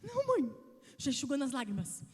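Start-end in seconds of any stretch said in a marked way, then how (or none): 0.0-0.5 put-on child's reply. Son's reply voiced.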